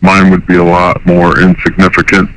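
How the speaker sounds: caller voice through a pitch-changing harmonizer; electronically disguised phone caller. Real, not acted. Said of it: "so his voice is disguised".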